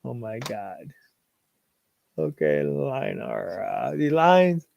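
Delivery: half-hearted mock sinister voice. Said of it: "now you're making me do my sinister voice".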